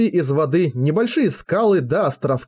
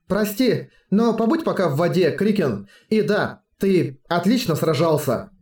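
cold tone; 3 semitones higher than usual. Acted. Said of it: "холодным тоном ответила Черноснежка".

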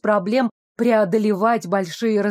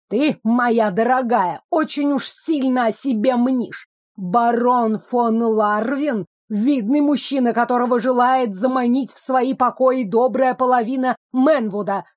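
haughty lecturing. Acted. Хамка Вабу поучает героиню.

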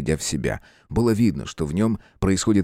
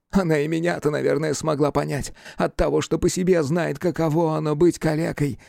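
higher-voiced, bitter confiding; bitter reflection; 7 semitones higher than usual. A narrator's reading. Cripple explaining why she understood him, bitterly. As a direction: speak with wounded bitterness. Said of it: "Горбун горько усмехнулся".

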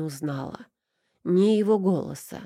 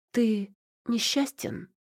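blurted out; 5 semitones higher, slower than usual. A narrator's reading. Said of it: "выпалила".

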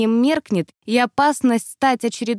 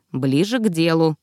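curt, grumbling reply; 5 semitones lower than usual. Acted. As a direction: grumble it, wanting to get it over with. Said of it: "буркнула я".

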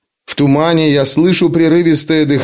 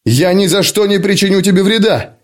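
higher, alarmed cry of protest; horrified outcry; 5 semitones higher than usual. Acted. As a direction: cry out in horror. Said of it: "в ужасе выкрикиваю я".

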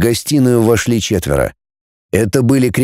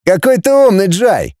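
high mocking jab; sneering sarcasm, pitched high; sarcastic; 8 semitones higher than usual. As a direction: needle him with mock praise. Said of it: "съязвил".

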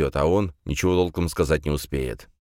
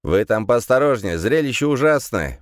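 raised, louder warning; 7 semitones higher, 4 dB louder than usual. A narrator's reading. Gendarme warning visitors about the awful sight, warning. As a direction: warn them with a high, pressing voice. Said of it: "предупредил он".

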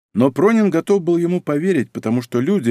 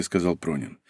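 ordinary delivery

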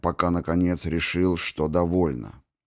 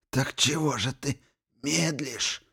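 creaky wheezing taunt; 7 semitones higher, 7 dB quieter than usual. A narrator's reading. Archmage taunts, weak.

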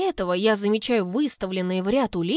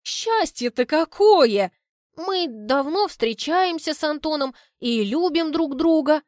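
high, loud, slow joyful cry; exclaiming; 6 semitones higher, 3 dB louder, slower than usual. Acted. Mother overacts joy at the news, loud slow exclaim. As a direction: gush with overacted delight. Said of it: "восклицает мама".

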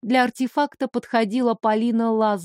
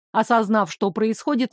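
plain reading voice

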